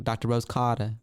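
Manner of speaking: light put-on Jersey accent, dropped final r. Shown as a demonstration. Host showing how the name sounds on Jersey, mock Jersey accent. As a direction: say Cotter as "cah-duh", Jersey style. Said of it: "like, you're on Jersey".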